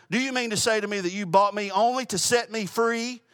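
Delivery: put-on freed girl asking in disbelief; astonished disbelief. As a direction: ask it stunned. Girl's astonished question in story.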